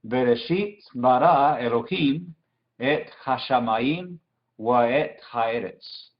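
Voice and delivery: careful teacher's read-through of the verse; measured connected reading. Shown as a demonstration. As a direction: model the whole Hebrew verse, phrase by phrase. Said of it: "Entonces, todo junto sería". (lectura pausada del versículo completo en hebreo)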